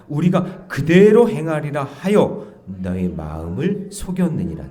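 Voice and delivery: slow, loud unison reading of the verse; scripture reading. Acted. Pastor leading the congregation through verse twenty, reading aloud. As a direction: read it out together, slowly.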